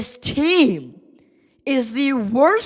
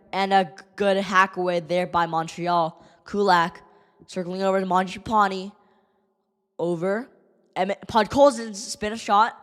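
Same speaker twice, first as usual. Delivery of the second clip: softer downbeat running call; subdued play-by-play; 2 semitones lower, 3 dB quieter than usual. Acted. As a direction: keep calling it, dejected. Calls play-by-play quietly.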